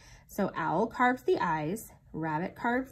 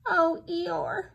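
sad; 9 semitones higher, 4 dB louder than usual. A narrator's reading. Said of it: "said Pooh sadly".

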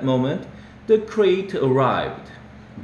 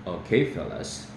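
mother's voice; 8 semitones lower, 6 dB quieter than usual. Acted. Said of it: "Missus Murnau called".

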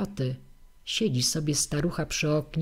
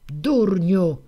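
a loud, higher shout of the insult; shouting old woman; 3 semitones higher, 6 dB louder than usual. Acted. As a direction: yell at the useless husband.

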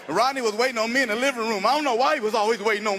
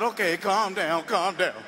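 slow, lower calm-down; soothing; 3 semitones lower, slower than usual. Retold or imitated. Comedian calming the hungry brother, slow and low. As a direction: settle him down gently.

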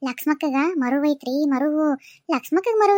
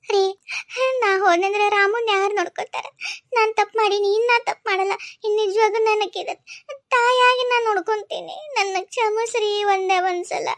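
tearful pleading; 4 semitones higher than usual. Acted. Wife begs husband for forgiveness.

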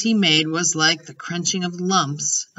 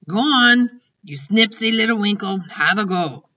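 raised, coaxing push that eases off; lightly voiced goading giant; 3 semitones higher, 4 dB louder than usual. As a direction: urge her on teasingly as a giant. Giant goading Sophie to taste.

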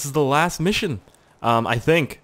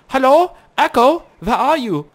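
high, louder mock call; imitating a guard; 12 semitones higher, 7 dB louder than usual. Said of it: "He's like".

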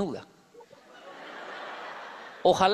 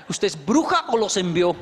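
laughing; 5 dB louder than usual. Retold or imitated. Laughing question to wife.

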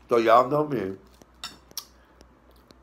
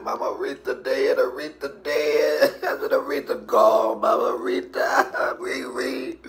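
sobbing; 5 semitones higher, 3 dB louder than usual. Retold or imitated. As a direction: wail the news through tears.

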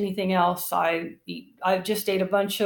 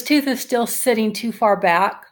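talking with finger in mouth; finger pulling lip down; 3 dB louder than usual. Real, not acted. Seen 0: Finger pulls lower lip down to show teeth while talking; returns 7.3-13.3.

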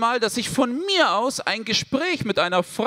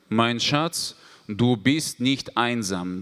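soothing mother voice; 11 semitones lower, slower than usual. Retold or imitated. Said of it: "Meine Mutter kommt rein".

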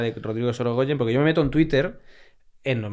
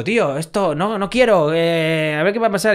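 worried plea; 5 semitones higher, 5 dB louder than usual. Retold or imitated. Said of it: "le digo".

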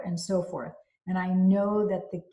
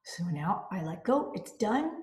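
soft letting-go whisper; 3 dB quieter than usual. Shown as a demonstration. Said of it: "You're like".

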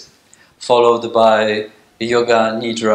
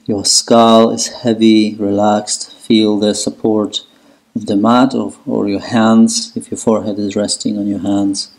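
steady meditation guide with long pauses; guided relaxation. Acted. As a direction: lead them into letting go, unhurried, even-toned. Guides breathing and relaxation in child's pose.

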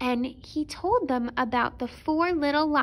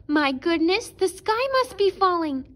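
high alarmed cry; flustered hen in a panic; panicky hen; 6 semitones higher, 5 dB louder than usual. A narrator's reading. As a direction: rush it out in a fluster. Hen panics about sky.

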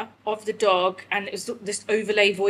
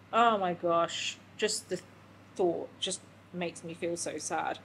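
holding back tears as she speaks of losing him; tearful; 2 semitones lower, 5 dB quieter than usual. Real, not acted. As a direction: voice sinking softer with tears. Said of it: "I'm doing it again".

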